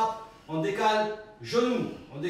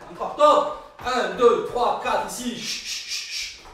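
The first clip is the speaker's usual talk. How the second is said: loud, punchy fitness-coach count; shouted counting; 6 dB louder, much slower than usual. Real, not acted. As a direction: call the counts out over the music.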